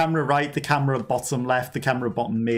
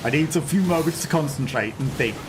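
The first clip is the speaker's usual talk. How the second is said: put-on Scottish accent that slides into Irish; attempted Scottish accent; 2 semitones higher than usual. Streamer practising a Scottish accent live, Irish-leaning Scottish accent. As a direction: reach for Scottish and land half Irish. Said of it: "The Scottish accent is".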